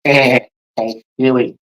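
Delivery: very slow put-on cartoon voice; Family Guy. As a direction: stretch the names out like a cartoon character. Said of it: "Sounds like a Family Guy episode".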